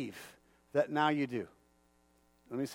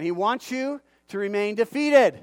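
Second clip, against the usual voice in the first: louder, driving the point home on "defeated"; louder repeat; 6 dB louder than usual. Shown as a demonstration. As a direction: say it again, louder, hitting "defeated". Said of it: "I'm gonna say it again".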